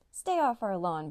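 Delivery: slow, loud barked order; dog barking a warning off the lawn. Acted. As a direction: bark it out, slow and firm. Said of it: "barked May".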